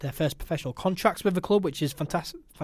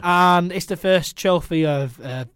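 mock boast. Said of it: "Don't get carried away, mate".

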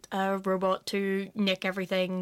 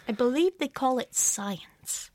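dry whisper; 3 semitones higher, slower than usual. Acted. Dry joke, whispered slowly.

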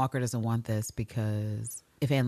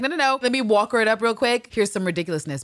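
higher, louder airy mockery; mock Walker; 7 semitones higher, 5 dB louder than usual. Podcaster mocking Walker's silly reply, high and airy. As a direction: ham up her silliness. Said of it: "But she's like".

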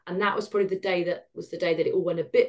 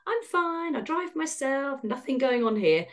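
higher, airy brush-off; mock breezy denial; 6 semitones higher than usual. Woman recalls brushing off the cancer scare, airy. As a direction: toss it off like nothing's wrong.

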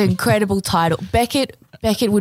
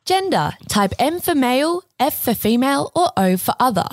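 robot voice; 3 semitones higher than usual. Acted. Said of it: "can I do a robot voice?".

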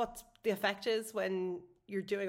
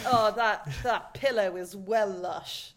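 slow, drawn-out mock gush over a pillow; lightly imitating someone who finds everything lush; mock West Country gush; much slower than usual. Friends mocking the word lush, slow drawn-out mock gush. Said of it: "being like".

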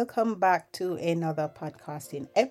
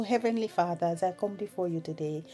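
soft, earnest spoken prayer; 3 dB quieter than usual. Acted. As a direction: pray quietly, hushed and sincere. Leads a prayer.

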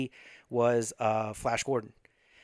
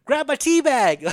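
loud, high, drawn-out heckle; slow, high mock shout; retold heckler's yell; 10 semitones higher, 6 dB louder, slower than usual. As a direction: yell it like a moviegoer heckling the screen. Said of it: "Some cat yelled out".

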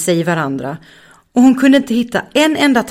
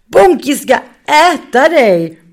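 loud, high teasing cry; mock Muffin gleefully; teasing laugh; 8 semitones higher, 7 dB louder than usual. Raga retar Muffin, skrattande. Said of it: "Raga skrattade så han kiknade".

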